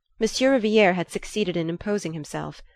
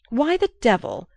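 higher and louder, bursting out; explosive outburst; 6 semitones higher, 4 dB louder than usual. A narrator's reading. Archer turning on the little Frenchman, explosive angry outburst. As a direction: let the anger explode on the opening. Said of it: "Archer explosively continued".

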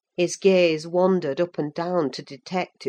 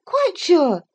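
put-on higher, brighter girl's voice, eager; young Cathy, lively; 12 semitones higher, 5 dB louder than usual. A narrator's reading. Cathy talking to Ellen about Linton, lively young voice. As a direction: play the young lady, quick and sure.

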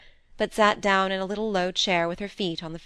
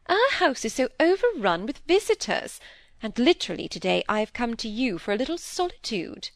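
lively, lightly voiced peer's daughter; playful aristocratic complaint; complaining lady visitor; 4 semitones higher than usual.

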